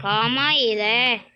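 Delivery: playful mock Japanese call. Gamer throwing in joke Japanese for viewers, mock Japanese. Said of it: "Japanese yun".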